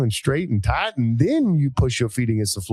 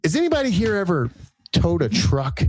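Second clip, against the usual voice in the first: hick coach asking the crowd; Southern coach voice; 7 semitones higher than usual. Retold or imitated. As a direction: coach asks Californians in a put-on country voice. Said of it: "and I said".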